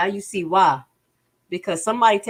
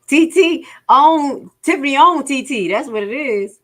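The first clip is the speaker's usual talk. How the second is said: laughing; 9 semitones higher, 8 dB louder than usual. Real, not acted. Laughs at the joke.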